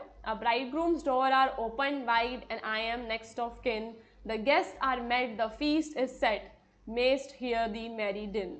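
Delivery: slow measured verse reading; slow recital of a Coleridge poem. Shown as a demonstration. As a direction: read it out with the iambic beat. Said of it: "एक और आपको example दे रखा है".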